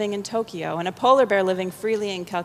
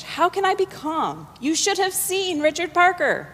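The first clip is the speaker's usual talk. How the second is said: agitated Pai; 9 semitones higher than usual. Acted. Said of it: "Pai in English".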